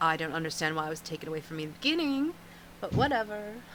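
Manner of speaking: muttered half-whisper under the breath. In a role-play, a character gives thanks for a bag, then half-whispering under breath. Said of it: "she whispers under her breath".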